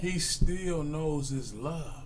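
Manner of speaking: drawn-out, deliberate words; slow, measured statement. Real, not acted. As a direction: state it slowly and evenly. First, measured take of his point.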